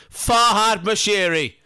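mock insult. Real, not acted. Insulting Everton owner.

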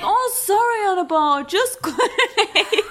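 high, comic apologetic mother; hammed-up motherly falsetto; exaggerated mum impression. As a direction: imitate a mum in a high put-on voice, breaking into laughter. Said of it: "impression of my mum".

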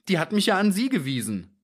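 high, plaintive protest; whimpering little man. A narrator's reading. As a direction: plead feebly in a high character voice. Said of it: "wimmerte der kleine Mann".

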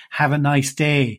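slow, mildly ironic pleasantry. Retold or imitated. Summer worker answering the milkman, ironically. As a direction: say it back slowly with understated irony. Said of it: "ironically saying back to him".

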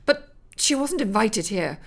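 outraged mother defending her bikini; indignant protest. Acted. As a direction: scold them as the wronged lady. Elizabeth confronts the intruders.

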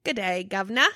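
lightly put-on British greeting; mock British. Co-host greeting the British swear list, mock British. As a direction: play at a cheeky British hello.

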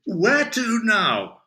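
slow, high, shouted question; big drunken shout of eagerness; loud drunken rallying. A narrator's reading. Drunk Adam rallies himself.

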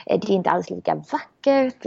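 high-pitched, fussy inner critic; protesting rational mind. Acted. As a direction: act out the mind objecting, point after point. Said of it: "Och Mind bara".

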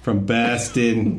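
slow, drawn-out Boston accent; stretched mock Boston vowels; attempted Boston accent. Shown as a demonstration. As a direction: have an unsure go at a Boston accent. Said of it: "I don't know if that's right".

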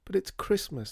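high-pitched plaintive protest; tearful wail. A narrator's reading. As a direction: whine it as if near tears. Tearful Peony laments again.

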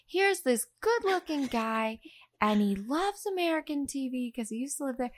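quoting the director with a lift; Rob Reiner impression. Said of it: "Rob Reiner was like".

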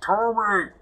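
calling a name across distance. Acted. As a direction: shout the name to reach him. Character calls out over sending stone.

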